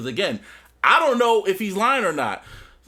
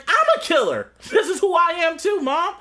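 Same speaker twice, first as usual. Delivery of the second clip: high, raised-voice confession; imitated defiant outburst; 10 semitones higher, 4 dB louder than usual. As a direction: hurl it at your mother, acted out. Voicing Tariq confronting his mother.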